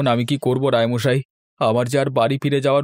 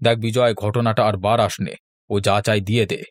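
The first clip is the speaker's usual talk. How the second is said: lower, a mild scolding elder; lower elder's voice; 3 semitones lower than usual. Acted. Elder Raymoshai mildly scolds Bijoy in a lower voice. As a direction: reprove the boys like a fair old judge.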